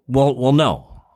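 put-on high, hesitant teen voice; unsure teenager. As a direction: hedge it like a sulky kid. Voicing a teen client.

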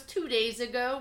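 toneless, matter-of-fact answer; emotionless. Retold or imitated. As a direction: imitate a kid with no emotion. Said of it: "with no emotion".

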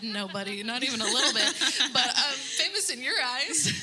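put-on laughing, tender answer to a child; laughing reply to son. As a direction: laugh it off gently with your son. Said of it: "And I said".

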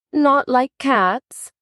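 high, slow, indignant cry; offended mouse crying out in high indignation; shrill, passionate. Acted. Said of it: "in a shrill, passionate voice".

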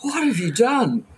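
a hint of an incredulous officer; imitated stern cops. Cops confronting two housemates at the door, imitated stern demand. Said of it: "two cops just look at us".

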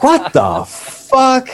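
mock disbelief. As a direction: stretch it out in fake astonishment. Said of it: "They're like".

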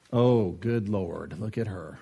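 muttering judgment. Retold or imitated. Preacher mimicking a church gossip judging a woman, slow mutter. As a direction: tut at her like a gossiping church lady. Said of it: "sounds like this".

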